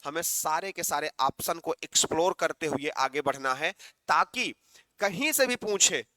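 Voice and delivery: ordinary talk, nothing marked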